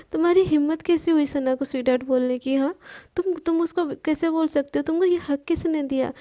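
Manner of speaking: quick, mildly heated demand; how dare you, lightly played; jealous anger. Palak jealously confronts Manya over sweetheart, mildly angry. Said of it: "वो एकदम गुस्से में बोलती है".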